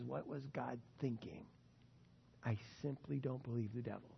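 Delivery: a hushed, faithful Job quietly refusing to doubt; quiet steadfast trust. Pretend. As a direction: say it softly like an unshakable promise. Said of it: "You say what Job said".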